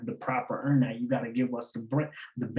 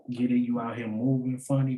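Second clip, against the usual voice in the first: ordinary talk, nothing marked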